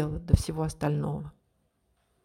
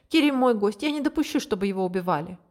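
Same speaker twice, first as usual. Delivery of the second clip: urgent plea; 3 semitones higher, faster than usual. Acted. Daughter pleads with father.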